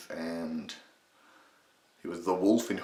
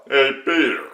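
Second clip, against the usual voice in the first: higher, louder nasal catchphrase voice; Patrick Warburton; 6 semitones higher, 10 dB louder than usual. Shown as a demonstration. Tutor demonstrating the mid-range catchphrase, loud Warburton impression. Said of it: "We're gonna keep our".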